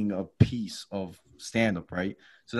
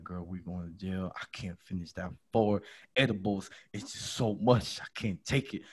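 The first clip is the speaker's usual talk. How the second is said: much softer, low dread; nervous murmur; 4 semitones lower, 8 dB quieter than usual. Retold or imitated. To his friend while agents confer, soft fearful murmur. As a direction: murmur it to your friend, scared.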